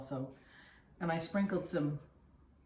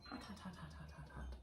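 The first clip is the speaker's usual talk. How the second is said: mouth full of hot food; 14 dB quieter, faster than usual. Real, not acted. Tasting a brownie too hot.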